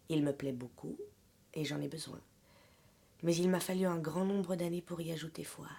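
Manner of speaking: measured love-letter reading with pauses between phrases; literary reading aloud. Acted. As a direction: read the letter to an absent lover, phrase by phrase. (lecture posée d'une lettre d'amour)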